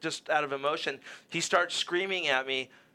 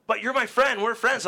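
pleading friend; 7 semitones higher, 4 dB louder than usual. Retold or imitated. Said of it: "Tony's telling me".

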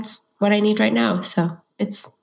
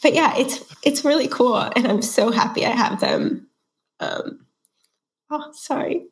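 pushing words out while tearing up; teary-eyed; 4 semitones higher than usual. Real, not acted. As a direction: voice high and wobbly with tears. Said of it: "I'm getting teary-eyed".

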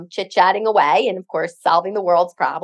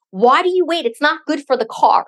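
higher-pitched scolding, only mildly worked up; mock parental telling-off; nagging dad; 4 semitones higher than usual. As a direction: imitate a dad's exasperated lecture. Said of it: "he's gonna yell at me".

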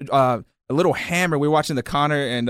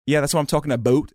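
lightly mimicked Canadian accent on "about"; Canadian-sounding "about"; 2 semitones higher than usual. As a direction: imitate a Canadian or New England "about". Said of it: "I heard him say the word".

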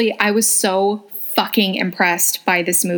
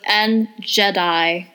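dramatic announcer voice; much slower than usual. Acted. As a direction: draw out the title like a movie trailer.

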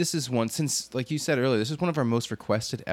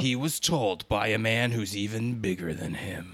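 fighting game announcer; 2 semitones lower than usual. Retold or imitated. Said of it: "the movie trailer announcer voice".

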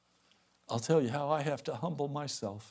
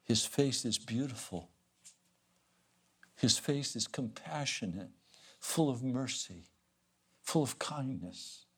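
tender devotional tone; slower than usual. Acted.

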